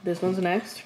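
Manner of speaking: talking through a mouthful of chips; chewing while talking. Real, not acted. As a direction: speak while munching Cheetos. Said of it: "sorry you can hear me munching on Cheetos".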